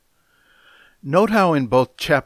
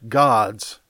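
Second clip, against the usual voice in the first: "God's" set out louder on its own; stress on God's; 4 dB louder than usual. Shown as a demonstration. Preacher pointing out the possessive, stressed "God's". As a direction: hit "God's" and let it stand. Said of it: "the possessive God".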